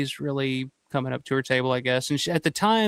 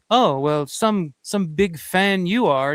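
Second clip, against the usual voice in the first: sneering; 2 semitones higher, 3 dB louder, slower than usual. Retold or imitated. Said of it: "kinda sneered and was just like".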